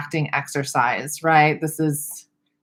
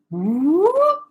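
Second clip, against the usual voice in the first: rising whoop glide; 13 semitones higher than usual. Shown as a demonstration. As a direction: glide the word Whoop up in one smooth sweep. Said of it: "you can use the word".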